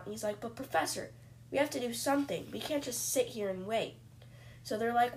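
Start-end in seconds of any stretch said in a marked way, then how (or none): 0.4-4.0 urgent cry. Retold or imitated. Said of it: "cried out".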